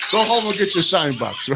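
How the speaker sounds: a hint of a mocking mobster; quoting the movie gangster. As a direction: toss off the famous mob line in a mild impression. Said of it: "that's just such a classic line".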